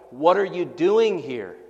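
loud challenge. Acted. Preacher voicing God to Elijah, loud confronting call. God's question, voiced emphatically.

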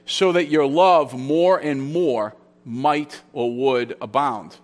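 slow, deliberate, weight on "love"; stress on love. Shown as a demonstration. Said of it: "the emphasis is on the love".

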